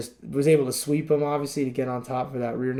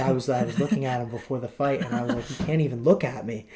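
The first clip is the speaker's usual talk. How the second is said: Cruz impression; faster than usual. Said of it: "he says it with such conviction".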